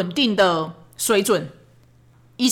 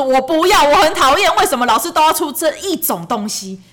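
put-on whiny child refusal; 5 semitones higher, 4 dB louder than usual. Son refuses diary writing.

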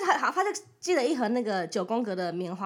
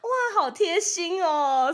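slow, drawn-out gushing; mock gushing commenter; 5 semitones higher, 4 dB louder, much slower than usual. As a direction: lightly mimic a sugary fan. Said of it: "开始在下面留言说". (网友留言时轻轻模仿的夸张语气)

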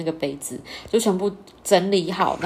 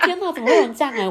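laughing disbelief; 6 semitones higher, faster than usual. Retold or imitated. Retelling shock at boyfriend's words.

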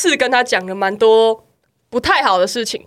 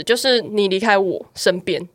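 quoted tender plea; 5 semitones lower, 4 dB quieter than usual. Retold or imitated. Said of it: "她最后就讲了一句说".

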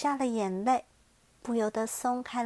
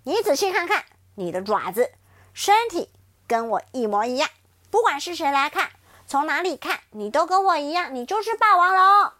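loud, higher, pressing insistence; forceful tyrannosaurus; 4 semitones higher, 7 dB louder than usual. Acted. T-rex pinning Xiaoliang down, loud and forceful. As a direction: pin him down with every word. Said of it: "霸王龙压着小梁说".

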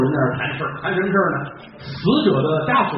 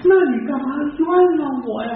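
aggrieved protest; 9 semitones higher, much faster than usual. Acted. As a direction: protest the false accusation, voice climbing high. Condemned men argue before execution.

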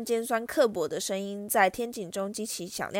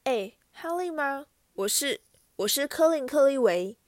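nervous, hesitant; 5 semitones higher, 3 dB louder than usual. Acted. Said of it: "他提心吊胆地说".

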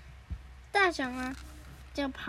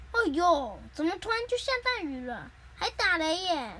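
dismayed complaint; 3 semitones higher than usual. Acted. 绿豆冰 is caught in a thunderstorm, dismayed. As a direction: exclaim over it with raised pitch. Figure complains about sudden storm.

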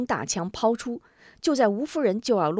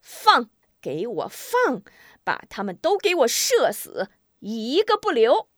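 commander's call, building higher to the end; loud ruthless order; 5 semitones higher than usual. A narrator's reading. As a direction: order the killing, drawing out the command. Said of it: "大声喊".

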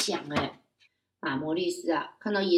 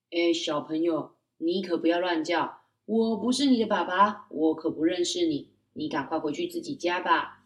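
lightly voiced father; 2 semitones lower than usual. Father dismisses child.

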